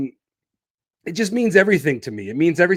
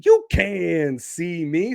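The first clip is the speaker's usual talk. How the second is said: slow, stretched "You CAN see me"; drawn-out repeat; 3 semitones higher, slower than usual. Real, not acted. Podcaster playing up being on video, drawn out.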